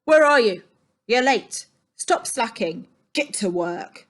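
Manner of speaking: loud bossy yell. A narrator's reading. Ernie yelling at Stan to get working. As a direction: bark orders across the room. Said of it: "Ernie would yell".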